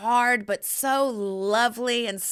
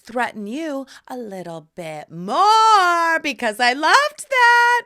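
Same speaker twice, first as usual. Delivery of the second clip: much higher, louder and half crying with glee; teasing husband she'll threaten more, high and giddy; 7 semitones higher, 8 dB louder, slower than usual. Retold or imitated. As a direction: gush it through tearful laughter. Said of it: "And I said".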